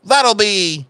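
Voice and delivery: loud, high Cockney robot bartender; booming mock-Cockney barman greeting a customer; bad Cockney accent. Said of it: "loud as shit in his bad Cockney accent".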